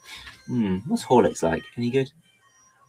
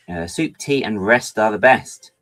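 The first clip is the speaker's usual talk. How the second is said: proverb read slowly; 2 semitones higher, 5 dB louder, slower than usual. Shown as a demonstration. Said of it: "That is a proverb".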